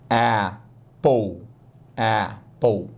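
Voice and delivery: Apple with open E, like EH-pol; English apple. Shown as a demonstration. Teacher modelling Apple for Brazilian learners, slow and clear. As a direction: say Apple as EH-pol, not A-pple. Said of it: "mas fala apple".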